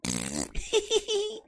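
very high squeaky cackle; silly high old-man squeal; old man noise. Shown as a demonstration. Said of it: "Mostly they sound like this".

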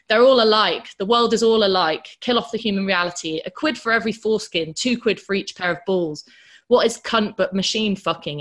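loud, forceful tirade against the modern world; ranting. Retold or imitated. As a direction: rant it out, hammering each line. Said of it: "in one of his rants".

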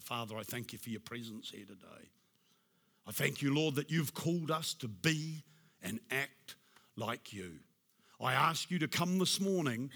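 closing sermon prayer, hushed. Real, not acted. Closing prayer over the congregation.

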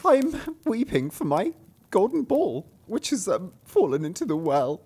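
princess voice. Acted. Princess answering the frog, high girlish squeal.

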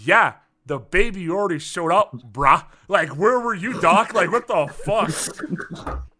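mock attitude, loud on brah and doc; sassy nurse. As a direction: throw it at the doctor like he's late to his own party. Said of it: "giving him such attitude".

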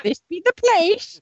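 slow pirate growl; gruff old fisherman. Retold or imitated. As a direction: drag it out like an old salt. Quoting pirate ride voice.

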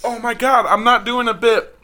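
talking around strong mint gum; words round a piece of gum; chewing gum. Real, not acted. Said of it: "tastes like I'm brushing my teeth".

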